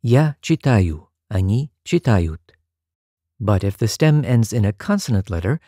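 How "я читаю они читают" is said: slow, careful model of "читаю" and "читают"; teacher modelling Russian verb forms; Russian example forms. Shown as a demonstration. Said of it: "spelled yu and yut".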